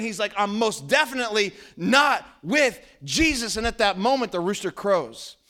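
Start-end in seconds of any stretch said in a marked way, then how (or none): 0.4-3.6 loud, insistent denial shouted out; adamant swearing denial. Retold or imitated. Peter denying Jesus to the crowd, shouting angrily. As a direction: Peter swearing he never knew him. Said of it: "he is cussing and swearing".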